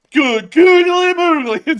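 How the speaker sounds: high, loud, very slow cry of amazement; hooting, wide-eyed wow; excited exclamation. Real, not acted. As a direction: stretch it out in delighted shock. Reacting to a fat marmot.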